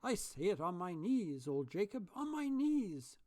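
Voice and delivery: high, loud, overjoyed; joyful repeat. A narrator's reading. Scrooge scrambling out of bed, overjoyed and loud. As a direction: burst with joy. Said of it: "Scrooge repeated as he scrambled".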